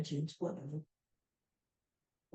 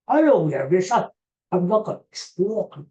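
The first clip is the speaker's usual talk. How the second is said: Bernie Sanders impression; 5 dB louder than usual. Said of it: "my Bernie Sanders impersonation".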